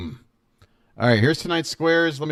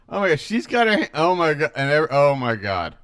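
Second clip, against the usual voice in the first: excited; faster than usual. Real, not acted. Shocked reaction to the stream.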